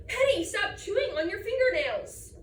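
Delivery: put-on exasperated mom telling off her kid; scolding mom. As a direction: cut in like a nagging mom. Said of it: "My mom thinks I should say".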